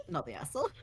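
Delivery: high laughing echo. Real, not acted. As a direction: laugh out the verdict. Echoes verdict with a laugh.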